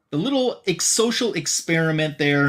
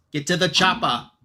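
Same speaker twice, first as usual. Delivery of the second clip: action-movie catchphrase; 5 semitones higher than usual. Acted. Podcaster quoting "get to the chopper", mock heroic shout. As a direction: bark it like a hammed-up action hero.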